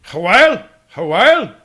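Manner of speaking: high, very loud exclamation; exaggerated yelp; called out. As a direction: holler the word like a goofy echo. Calls out exaggerated word.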